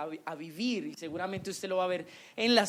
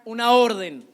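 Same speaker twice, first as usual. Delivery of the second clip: emphatic answer; 11 dB louder than usual. Real, not acted. Preacher answers his own question.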